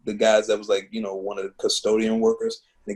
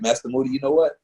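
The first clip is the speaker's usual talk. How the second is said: a slightly raised, fast, good-natured refusal; playful brush-off; 3 semitones higher than usual. Retold or imitated. Telling his mentor he won't discuss religion, a playful brush-off. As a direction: wave off the topic with a grin. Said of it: "And I was like".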